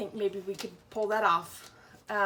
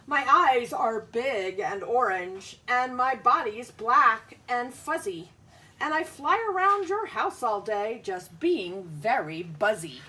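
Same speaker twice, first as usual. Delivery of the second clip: a hint of a bouncy fly, a little louder; lightly voiced fly; 7 dB louder than usual. Teacher reads the fly's lines to young pupils, bouncy. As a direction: buzz about cheerfully. Bug speaks in book.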